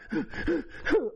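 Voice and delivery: short, heaving mock sobs; imitated gut sobs. Man showing audience how he cried, imitated sobs. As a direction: act out crying from the gut. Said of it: "Like that, I'm crying from my gut".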